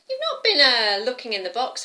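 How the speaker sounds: loud, high sudden check; grandma sharply checking up on a child; suspicious grandma. Acted. Grandma questions the girl.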